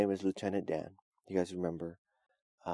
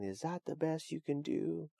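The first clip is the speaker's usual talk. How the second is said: higher and slow, a mild mock yell at the sky; understated challenge shouted at God; 5 semitones higher than usual. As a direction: lightly act a man defying the storm, slow and raised. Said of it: "He's yelling, he's saying".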